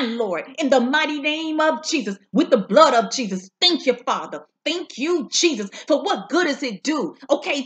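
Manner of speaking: fervent preaching cadence, rising on key words. Acted. Preacher testifying to the viewers, fervent preaching. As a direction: preach the word to the congregation.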